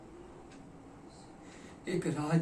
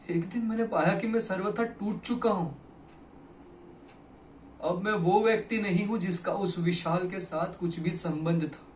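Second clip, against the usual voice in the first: higher, impassioned declaration; anguished outburst; 4 semitones higher, 3 dB louder than usual. Acted. Confessing he is wholly broken, anguished outburst. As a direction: let the despair swell.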